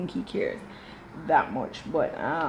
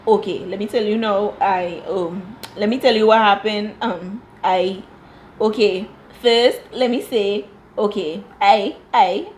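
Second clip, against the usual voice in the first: mock stammer; 4 dB louder than usual. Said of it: "So he's like".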